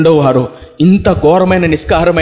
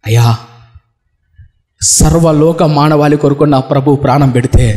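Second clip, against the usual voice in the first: weeping plea; 3 semitones lower than usual. Acted. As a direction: plead through tears to the pastor. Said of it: "నలిగి విరిగి నలిగిపోయి ఏడుస్తూ".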